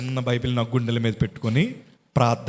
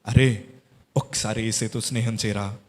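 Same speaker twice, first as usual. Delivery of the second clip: gentle motherly plea; 3 semitones lower than usual. Retold or imitated. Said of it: "అని అన్నారు".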